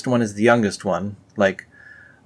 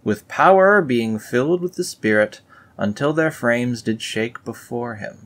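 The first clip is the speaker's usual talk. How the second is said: raised, solemn scripture read; 3 semitones higher than usual. Acted. Reading scripture aloud to viewers, mock solemn. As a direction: intone it like an old holy book.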